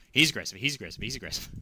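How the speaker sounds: loud and panicked, then it settles; alarmed shout. Real, not acted. Gamer spotting an aggressive monster, alarmed shout. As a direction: blurt the warning out in alarm.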